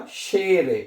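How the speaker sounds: शेरे said with a clear long "ay"; E read as "ay". Shown as a demonstration. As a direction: say शेरे as "shay-re", never "shee". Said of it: "ई को ए पढ़ते हैं".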